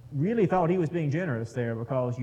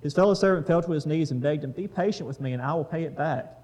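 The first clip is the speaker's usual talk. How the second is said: scripture reading. Acted. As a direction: read the passage out to the group. Reads the parable aloud.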